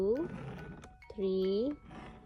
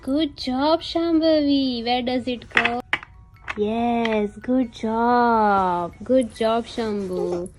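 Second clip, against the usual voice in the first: excited praise; 10 dB louder, slower than usual. Real, not acted. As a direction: cheer the little one on. Cheering toddler's answer.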